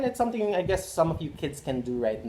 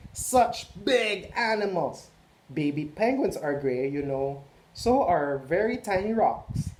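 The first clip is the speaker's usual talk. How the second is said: exhausted gray crayon; 3 semitones higher, 3 dB louder than usual. Acted. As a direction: groan about the huge animals you have to color. Gray Crayon's letter read aloud.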